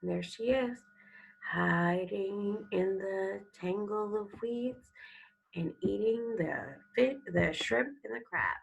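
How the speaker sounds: put-on expressive storybook reading to children; story read aloud. Teacher reading a sea turtle story to students, expressive. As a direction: read it like a picture book to the class.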